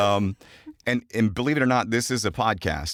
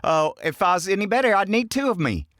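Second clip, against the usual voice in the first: high, hammed-up country voice; folksy Southern saying; 10 semitones higher than usual. Host showing off a homegrown saying, high folksy Southern accent. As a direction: crow it like a cheery country character. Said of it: "Kevinisms. Growing up".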